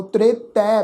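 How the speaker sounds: ਤ੍ਰੇਤੈ ending in open "ai", "tretai"; ਤ੍ਰੇਤੈ as "tre-tai", not closed at the end; double-lav vowel. Shown as a demonstration. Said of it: "ਦੁਲਾਵਾਂ ਦੀ ਮਾਤਰਾ ਦਾ ਪਾਠ ਹੈ".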